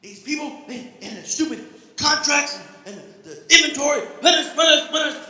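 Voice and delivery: mild mock Joe Pesci rant at the job. Commuter ranting at the job, a hint of Joe Pesci. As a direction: sputter like a crook losing it, lightly. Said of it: "You turn to Joe Pesci from Home Alone".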